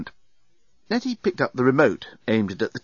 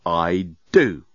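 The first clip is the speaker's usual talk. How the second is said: thoughtful; 5 semitones lower, 3 dB louder than usual. Acted. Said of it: "after some thought".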